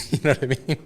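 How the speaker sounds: high laughing "you know what I mean"; laughing aside. Real, not acted. Host laughing to his guest about accents, high and laughing. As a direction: chuckle it out to your guest.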